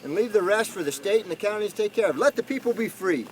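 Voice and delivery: high, insistent tirade easing toward the end; getting heated. Real, not acted. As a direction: demand they clear out, worked up. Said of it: "before I get too hot".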